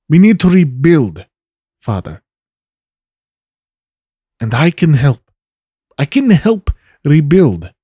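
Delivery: lightly acted appeal, emphatic with pauses; earnest pleading daughter. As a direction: plead with your father to let you help. Plays Trinity pleading to help.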